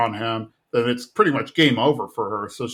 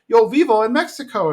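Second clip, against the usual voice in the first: lightly voiced little girl; 9 semitones higher, 4 dB louder than usual. Little girl's repeated line.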